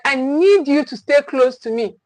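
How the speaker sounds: steady, gentle and firm; calm firm parent voice. Shown as a demonstration. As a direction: reassure while setting the limit. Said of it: "It sounds like".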